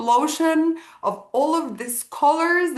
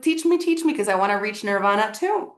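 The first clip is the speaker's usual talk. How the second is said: imitated excitement; faster than usual. Man begging dad to teach him meditation, mock excited. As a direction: play an overexcited would-be student. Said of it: "the guy gets super excited".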